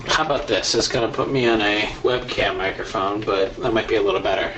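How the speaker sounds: metallic tinny mic sound; tin can voice. Real, not acted. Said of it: "It sounds like you're in a tin can".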